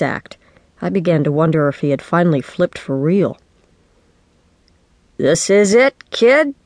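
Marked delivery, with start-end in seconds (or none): 5.2-6.5 dad's elated call, rising high at the end; excited yell. A narrator's reading. Dad spots his child in the doorway, excited yell. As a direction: build upward to a mild yell. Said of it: "he yelled when he spotted me".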